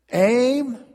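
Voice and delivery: very high, loud shouted order; barked command. Acted. Officer commanding the firing squad, shouted order. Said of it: "the officer barking orders".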